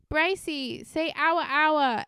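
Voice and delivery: imitated girlfriend's playful request; Addison Rae. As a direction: pitch it up, coaxing a boyfriend. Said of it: "she was like".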